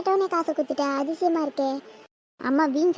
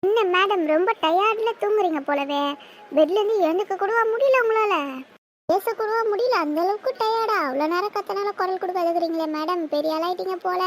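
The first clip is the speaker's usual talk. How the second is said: sarcastic teasing; 4 semitones higher than usual. Acted. Sister mocking her as madam.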